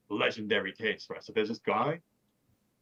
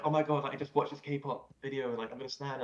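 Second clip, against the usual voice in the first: mock fangirl; 5 semitones higher than usual. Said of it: "loads of people like".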